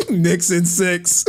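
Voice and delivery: loud, drawn-out fan cheer; hyped sports fan. Retold or imitated. Imitating a New York streamer rooting for the Knicks, hyped fan. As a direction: holler it slowly like a diehard supporter.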